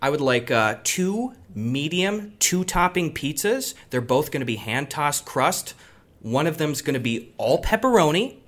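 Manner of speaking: clear, careful phone-order diction; customer service voice. Shown as a demonstration. Ordering pizza by phone to show friends his phone voice, careful and clear. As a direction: enunciate every word like a polite caller. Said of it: "tell you exactly how I do it".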